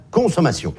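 "consommation" with its first syllable, con, set out clearly; stress on first syllable. Shown as a demonstration. Comedian pointing out the word inside consommation, first syllable stressed. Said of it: "La première syllabe est quand même très claire".

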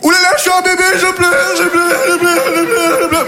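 put-on very high babyish whining voice; mock baby. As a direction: whine it in a squeaky baby voice. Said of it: "ils ont fait". (voix de bébé pleurnicheur, très aiguë)

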